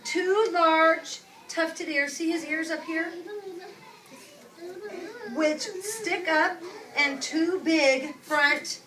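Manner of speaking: slow, drawn-out storybook reading; unhurried picture-book voice; reading to children. Acted. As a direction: read it slowly to the class. Teacher reads picture book aloud.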